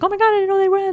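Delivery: high-pitched mock astonishment; retold surprise. Friend retelling finding out others went, retold surprise. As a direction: blurt it out high, as a retold reaction. Quoting own reaction afterwards.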